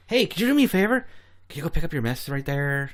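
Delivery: high, singled-out sweet asking voice; mock-polite request. Acts out an over-polite request.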